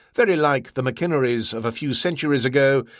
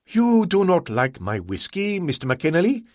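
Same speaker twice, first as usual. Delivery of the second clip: higher, suspicious slow question; slow, probing; 6 semitones higher than usual. Acted. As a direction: let the doubt hang. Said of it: "he asked slowly".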